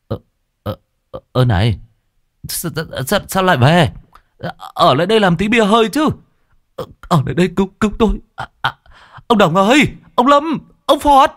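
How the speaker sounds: high, panicky calling after them; high frantic husband calling out; desperate pleading. A narrator's reading. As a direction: beg the friends not to leave. Tẩy begs friends to stay.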